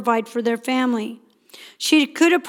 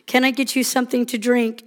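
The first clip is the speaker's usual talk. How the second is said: loving offer; faster than usual. Retold or imitated. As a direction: offer it sweetly to calm things. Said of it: "I look lovingly at Heather".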